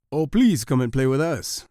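lightly voiced begging; begging monkeys. A narrator's reading. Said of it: "begged the monkeys".

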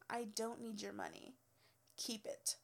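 soft, almost whispered brush-off; hushed final put-down; cold dismissal. Retold or imitated. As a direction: drop it quietly with contempt.

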